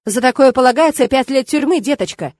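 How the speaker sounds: mocking. A narrator's reading. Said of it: "издевательски процедил он".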